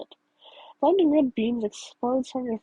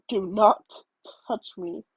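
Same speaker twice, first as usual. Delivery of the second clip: growl; 4 semitones lower, slower than usual. Acted. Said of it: "he growls".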